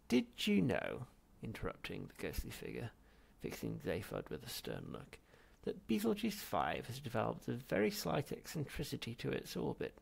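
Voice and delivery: wander off the point sternly; pedantic old ghost. Acted. Ghost lecturing Zaphod sternly.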